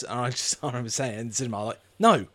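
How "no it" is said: raised, quick outburst; retold exasperation. Retelling a reply to the film in the cinema, exasperated. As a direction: fire back in disbelief.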